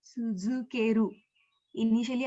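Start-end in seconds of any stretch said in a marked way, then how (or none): 0.0-1.1 slow, drawn-out "Suzukeru" for typing; slow dictation. Shown as a demonstration. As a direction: dictate "Suzukeru" slowly to learners. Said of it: "tell you what, uh, the entire word is".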